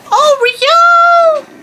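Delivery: loud high call for the dog. Real, not acted. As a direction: shout her name across the yard. Calling the dog.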